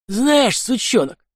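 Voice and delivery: vicious growl. Acted. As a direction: threaten the lad with contempt. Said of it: "зарычал анархист".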